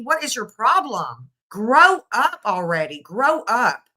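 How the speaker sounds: exasperated scolding; fed up. Real, not acted. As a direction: tell them off to their faces. Scolding the parents directly.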